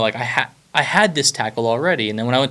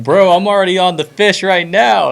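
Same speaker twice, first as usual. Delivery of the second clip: rude brush-off; 7 semitones higher, 6 dB louder than usual. Retold or imitated. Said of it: "I was like".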